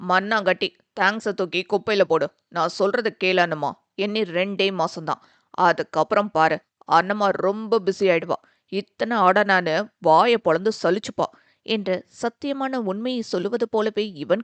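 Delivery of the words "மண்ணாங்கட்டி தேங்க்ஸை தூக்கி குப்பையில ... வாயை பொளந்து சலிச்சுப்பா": confident brother. Acted. Brother promising his sister a busy future, lightly voiced. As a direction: brush off the thanks boldly.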